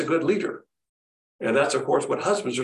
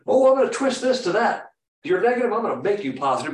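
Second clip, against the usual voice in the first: mock forceful God; 4 semitones higher than usual. Mock God forcing people.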